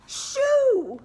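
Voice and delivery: high loud snapping shoo; grumpy gnome. Acted. Rude gnome shoos the readers away, loud and high. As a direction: shoo them off rudely.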